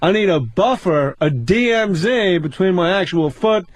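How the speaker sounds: measured, incredulous stand-up setup, lightly imitated; mock-puzzled observational comic, pausing between phrases; Jerry Seinfeld. Comic riffs on socks and shoes, mock stand-up delivery. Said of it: "Seinfeld, what's the deal".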